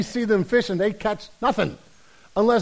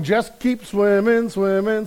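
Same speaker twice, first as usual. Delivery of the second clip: Finding Nemo fish; 2 semitones higher, slower than usual. Acted. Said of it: "this Finding Nemo bu-, moment".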